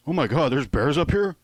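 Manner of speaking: high, loud airhead question; lightly voiced dumb party girl; ditzy girl. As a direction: sound clueless and alarmed. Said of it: "one of the girls asked idiotically".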